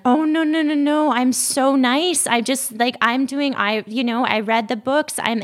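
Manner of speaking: hammed-up flustered denial, playing the innocent; mock defensive protest. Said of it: "And they're like".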